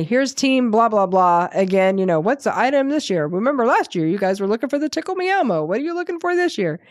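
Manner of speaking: local news reporter. Retold or imitated. Reporter asks shoppers about this year's item, mock interview. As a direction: put questions like a chirpy TV reporter, lightly. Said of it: "interviewed by the local news".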